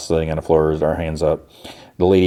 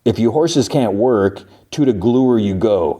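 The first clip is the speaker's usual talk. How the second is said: mild mock yell, raised in pitch; slow, higher-pitched pretend bellow; retold yell; 4 semitones higher, slower than usual. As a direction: imitate a boss yelling at workers, without real volume. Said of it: "And he yells".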